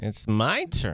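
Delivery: vocal fry with rising inflection at the end. Repeating a reality show line: Kristin Cavallari voice with vocal fry. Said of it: "Should I just talk like Kristen does in that?".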